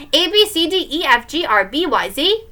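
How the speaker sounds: singsong alphabet; child's lilting chant; showing-off recitation. Acted. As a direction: rattle off letters like a little kid. Child keeps reciting over brother.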